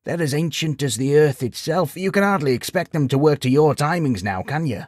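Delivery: lightly voiced sage, gently regretful; note of sadness. A narrator's reading. Sage gently corrects the travelling knight, a touch of sadness. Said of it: "a note of sadness in his voice".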